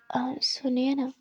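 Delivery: slow, shy whisper; hesitant and bashful, barely breathed; coy whispered plea. Acted. Shy girl hesitating to confess.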